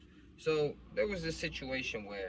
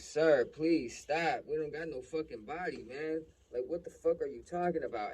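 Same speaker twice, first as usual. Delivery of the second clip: higher-pitched pleading, acted out; scared protest; 4 semitones higher, 3 dB louder than usual. Son denies having a body, pleading with cop. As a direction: re-enact a scared kid protesting to police. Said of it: "I'm, like, hella scared".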